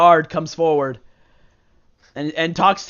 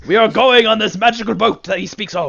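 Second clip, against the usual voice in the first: Mushroom King voice; 3 semitones higher, 4 dB louder than usual. Acted. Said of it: "Says the Mushroom King".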